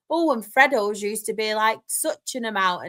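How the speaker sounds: mock a reminiscing mum; old woman impression. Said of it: "And, and she's like".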